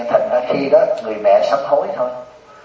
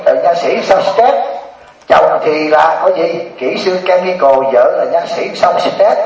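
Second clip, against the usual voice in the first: slightly raised, drawn-out incredulous question; mild retold disbelief; 3 semitones higher, slower than usual. Teacher questions a stressed dentist, in mild drawn-out disbelief. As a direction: question it with mock amazement, stretching the words.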